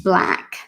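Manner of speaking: "black" cut short, no extra vowel; clean black. Shown as a demonstration. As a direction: stop dead on "black". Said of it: "let me show you".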